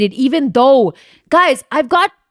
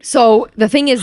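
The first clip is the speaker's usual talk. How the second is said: whisper; 3 dB louder than usual. Real, not acted. Leading into her story.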